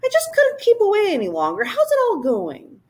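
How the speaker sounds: high, quick and eager creature voice; a bouncy little creature popping in; high fluttery royal creature; Whangdoodle voice. Acted.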